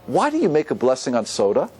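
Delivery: genuinely curious, wanting to learn; unhurried, honest asking; sincere question. Shown as a demonstration. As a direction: ask it openly, as if to be taught. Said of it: "I could ask things in different ways".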